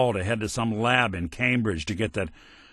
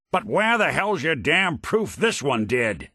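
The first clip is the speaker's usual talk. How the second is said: angry challenge; 5 semitones higher than usual. Acted. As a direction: push back hard, indignant. Companion angry at cold-blooded killing.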